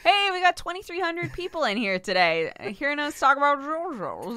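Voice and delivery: high, loud Southern put-on; mystery Southern accent. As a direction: greet the crowd in a goofy Southern accent. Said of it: "What accent is that?".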